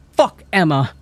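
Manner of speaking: put-on girl snapping at her friends, screaming; screamed. A narrator's reading. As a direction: snap and scream it. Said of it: "I screamed".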